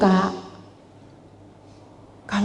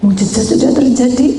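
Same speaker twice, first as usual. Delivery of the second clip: loud declaration; proclaiming; 6 semitones higher, 5 dB louder than usual. Acted. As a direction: announce the miracle. Repeated proclamation.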